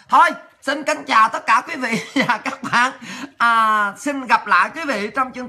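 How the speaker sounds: signing off through a real laugh. Real, not acted. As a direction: let the laugh break into the goodbye. (vừa chào vừa cười)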